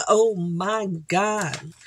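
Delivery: slow, stretched Oh my God like a song hook; drawn-out oh my God. Pretend. Vlogger joking about singing a song, slow drawn-out line. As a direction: draw it out slowly like the singer's song. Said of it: "Can you say".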